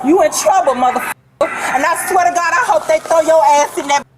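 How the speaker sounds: crying angry threat. Real, not acted. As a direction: threaten through sobs. Woman crying while threatening.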